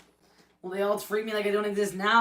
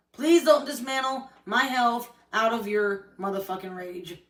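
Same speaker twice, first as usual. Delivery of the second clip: angry repeat; 4 dB louder than usual. Real, not acted. To Corey, repeating her plea with a curse, bitter and spent. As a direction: spit out motherfucking, let rage fall away.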